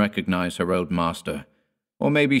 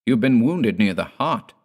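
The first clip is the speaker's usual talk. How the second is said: higher, louder alarmed cry; 5 semitones higher, 6 dB louder than usual. Acted. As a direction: cry out in shock at the wound. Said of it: "cried Dord".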